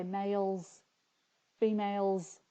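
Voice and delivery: males, females, each with an audible y glide; y sound in males. Shown as a demonstration. Vlogger testing her own spelling aloud, y sound in males. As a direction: draw out males and females to show the y. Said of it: "you can hear the Y sound".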